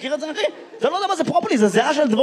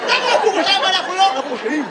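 tadpole role; 5 semitones higher, faster than usual. Acted. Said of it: "חיכינו שייתן לנו גם תפקיד".

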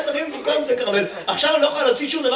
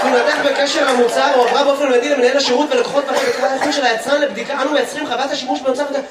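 reads it like an official corporate reply; mock bureaucratic tone, a bit louder; stiff formal letter reading; 4 dB louder than usual. (הקראה רשמית ומעושה של מכתב תשובה)

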